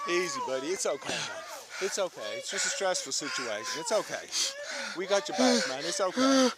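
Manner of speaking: soft, low, gentle reassurance; soothing. Real, not acted. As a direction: talk him down quietly. Officer calming a man down.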